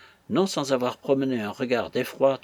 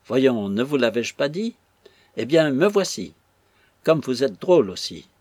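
exasperated protest; 4 dB louder than usual. Acted. Robin protesting to Ma'am Brown.

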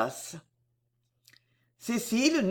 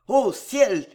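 louder, alarmed exclamation; cry of dismay; 3 semitones higher, 5 dB louder than usual. Acted. Delville, alarmed by Cécile's words, cries out louder. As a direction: gasp it out in fright. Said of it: "s'écria-t-il avec effroi".

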